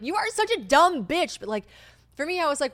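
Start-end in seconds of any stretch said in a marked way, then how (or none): 0.0-1.4 higher, slower scornful jeer; mock listener scorn. Listeners judging her, in a high jeering voice. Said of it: "most girls are listening to this are like".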